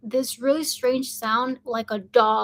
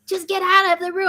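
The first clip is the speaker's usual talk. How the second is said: higher, mildly raised order; retold yelling; 6 semitones higher than usual. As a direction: imitate an urgent father, mildly. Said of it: "my dad is yelling at me".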